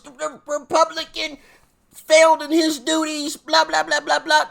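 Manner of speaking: high, mocking headline call; mock news coverage. Host imagining media pouncing on a Republican governor, mock news coverage.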